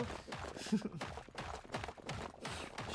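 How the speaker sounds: a high, airy giggle; breathy laugh. Real, not acted. Owner laughing at the cat story, airy high giggle.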